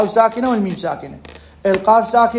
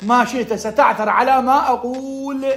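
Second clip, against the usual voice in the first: slow sheikh's pronouncement with stretched ending; sheikh giving advice; 3 semitones higher, slower than usual. Retold or imitated. Teacher quotes the sheikh sending students to ask, drawn-out pronouncement. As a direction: imitate a sheikh, drawing out the last word. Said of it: "هيك يقول الشيخ".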